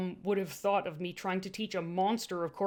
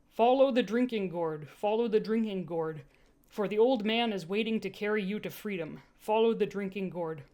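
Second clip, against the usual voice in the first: read aloud verse. Shown as a demonstration. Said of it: "I'm just gonna read it".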